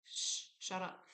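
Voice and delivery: whispered shh, shut up; hushing whisper. Retold or imitated. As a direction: hush someone sharply under your breath. Silencing her body.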